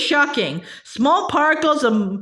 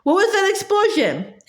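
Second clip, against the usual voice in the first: high voice cracking with alarm; 5 semitones higher than usual. Acted. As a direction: let the voice break upward. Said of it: "equally cracking voice followed".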